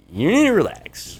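retold exasperated plea. Retold plea to biting stripper.

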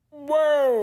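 high, drawn-out mock whoa; exaggerated whoa. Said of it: "I said".

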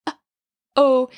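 uh-oh with a hard glottal onset; glottal clicks. Shown as a demonstration. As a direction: click the vocal folds together. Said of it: "Can you hear the little clicks?".

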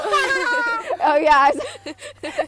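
loud, high mock shout; high, loud retold wail; imitated outburst. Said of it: "literally like that".

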